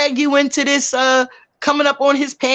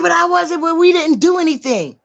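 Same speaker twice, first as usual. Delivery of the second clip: high-pitched mock excuse; imitated defensive backpedaling; defensive protest; 4 semitones higher than usual. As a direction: plead your case, imitating him. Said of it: "He said".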